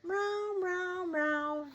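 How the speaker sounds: high sing-song meows; cat meows. Shown as a demonstration. Teacher meowing for the children, high and playful. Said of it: "Can you do this with me?".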